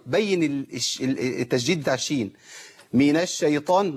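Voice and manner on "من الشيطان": الشيطان with the doubled sh cut to one; faulty الشيطان without doubling; wrong cut sheen. Shown as a demonstration. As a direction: clip the sh in من الشيطان to a single consonant. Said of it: "ده خطأ".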